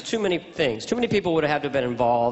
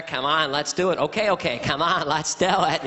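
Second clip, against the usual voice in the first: exaggerated presidential voice; folksy president coaxing a guest; comic send-up of a president; George Bush impression. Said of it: "My George Bush impression was".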